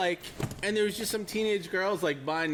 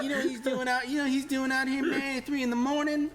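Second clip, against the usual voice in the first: high, insinuating, laughing; hint at something shady; conspiratorial clerk; 8 semitones higher than usual. Retold or imitated. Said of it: "He's like".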